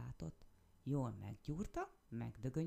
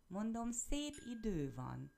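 higher, slower repeat, called louder; 7 semitones higher, slower than usual. A narrator's reading. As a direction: say it again, louder, slowly. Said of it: "ismételte a nyúl hangosabban". (hangosabban, lassan ismételve)

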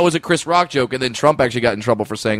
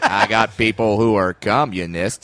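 John Wayne impression; 4 semitones lower, slower than usual. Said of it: "I can't do the voice".

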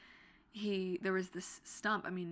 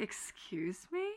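drawn-out slow excuse me; slow, doubtful question; slow incredulous; slower than usual. Retold or imitated. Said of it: "And I was like".

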